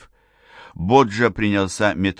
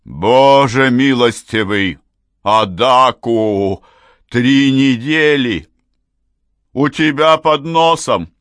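much louder, slow, higher; outraged; 5 semitones higher, 7 dB louder, slower than usual. A narrator's reading. Father raging at mother, loud slow outrage. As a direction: blast her with it.

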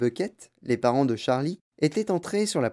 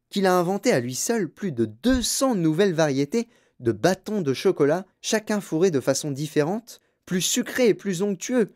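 enthusiastic grandfather; 6 semitones higher than usual. Acted. Reader voices grandfather's eager boasting.

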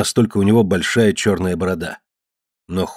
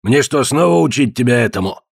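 raised, menacing brute; threatening; 4 semitones higher than usual. Acted. Ned to Walt, menacing threat. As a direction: threaten him with a lesson.

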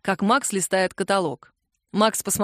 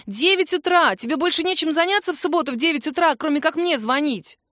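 indignant; 7 semitones higher than usual. Acted. Woken Kira scolds Max.

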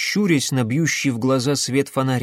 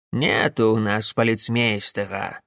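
lazy; 3 semitones lower than usual. Acted. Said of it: "лениво ответил старый Яков".

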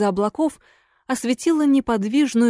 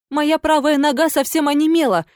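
desperate exclamation; 6 semitones higher than usual. Acted. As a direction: exclaim in despair. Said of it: "в отчаянии воскликнула".

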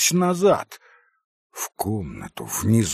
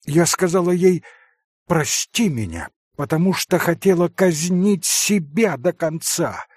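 a touch of twisted, strained passion; mildly distorted fierce declaration; 7 semitones higher, 3 dB louder than usual. Acted. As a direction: voice warped by wounded pride. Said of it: "искажённым голосом прибавила Катя".

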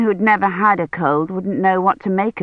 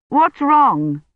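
frightened; 7 semitones higher than usual. Acted. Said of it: "eyes were wide with fright".

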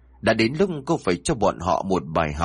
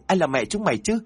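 much higher, furious denial yell; shouting; 8 semitones higher than usual. A narrator's reading. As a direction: scream the denial at them. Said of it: "cô liền hét lên". (hét lên chối bỏ, giọng cao vọt)

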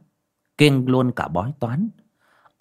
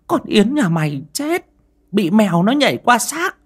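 high, loud fearful telling; frightened old aunt; 6 dB louder than usual. A narrator's reading. Aunt warning Mrs Nối about the cat, high and loud. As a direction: spill the omen out in alarm.

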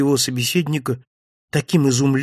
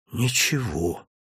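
softer, dejected whisper; 3 semitones lower, 7 dB quieter, slower than usual. A narrator's reading. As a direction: barely breathe the word out, crushed. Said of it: "прошептал я". (удручённый шёпот, тише обычного)

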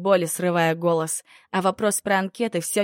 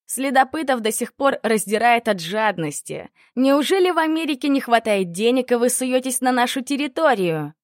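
scornful anger; 6 semitones higher, 4 dB louder than usual. Acted. Captor scolds rival hunters.

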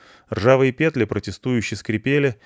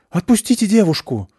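commanding shout; 11 semitones higher, 6 dB louder than usual. Acted. Miguel aiming a pistol.

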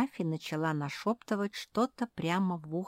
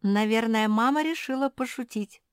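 giggling; 6 semitones higher, 6 dB louder than usual. A narrator's reading. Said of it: "захихикала Марсия".

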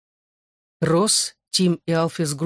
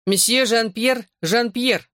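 slow, higher pompous French maestro; haughty French accent; 5 semitones higher, slower than usual. Acted. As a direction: introduce yourself grandly, very French. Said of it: "надменным, с густым французским акцентом, голосом маэстро". (надменный французский акцент маэстро)

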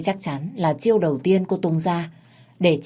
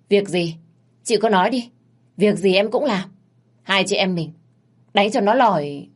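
put-on a bit higher, eager young thug; eager Sơn; 4 semitones higher, 4 dB louder than usual. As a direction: jump at the job, keen to fight.

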